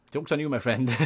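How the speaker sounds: laughing while teasing a rival; laughing gloat. Real, not acted. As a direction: gloat through a chuckle.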